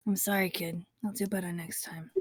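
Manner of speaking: soft, tender apology; really quiet, affectionate. Acted. Epic to the sleeping kid, very quietly. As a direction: murmur it over a sleeping child. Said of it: "just really quietly says".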